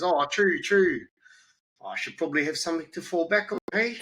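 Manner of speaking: a lightly voiced teen giving in; student's voice.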